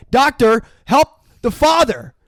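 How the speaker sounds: high, loud cry for help; imitated screaming. Priest screaming to the doctor for help, imitated shout. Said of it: "He starts screaming".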